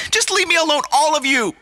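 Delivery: high, distraught outburst; upset plea. Acted. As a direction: whine to be left in peace. Host lashing out at everyone.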